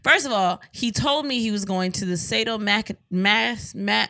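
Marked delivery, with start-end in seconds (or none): 2.1-4.1 halting tries at "sadomac-, mas-, ma-," breaking off mid-word; stumbling over the word. Real, not acted. Wife fumbling the store's name, tongue-tied on "sadomac-". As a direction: trip over "sadomac-" and restart. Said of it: "Say it right".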